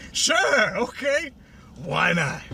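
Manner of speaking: high, cracking near-whine; whiny resigned yes. Retold or imitated. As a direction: give in with a mock wail. Twilight resigned.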